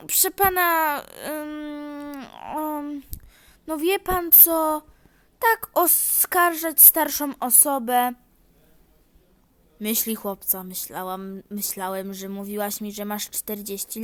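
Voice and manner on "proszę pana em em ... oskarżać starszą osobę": slow, higher mock outrage; hammed-up offended granny; offended old lady. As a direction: play the wronged elder.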